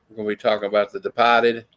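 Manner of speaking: put-on quick Boston accent, r's dropped. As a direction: talk it like a Boston local. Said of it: "that's my worst Boston accent".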